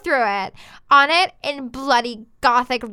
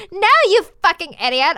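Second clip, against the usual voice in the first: higher, louder outburst; mock angry shout; 5 semitones higher, 5 dB louder than usual. Girl shouting at Draco in fan fiction, mock anger. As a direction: snap it at him in pretend fury. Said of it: "I shouted".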